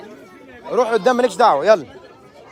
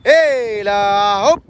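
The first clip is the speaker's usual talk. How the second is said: long slow heave-ho cheer; drawn-out jump call; 3 semitones lower, much slower than usual. Real, not acted. Guide to jumping kids, drawn-out slow jump call. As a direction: stretch hiii-la hoop out slowly as the jumper leaps.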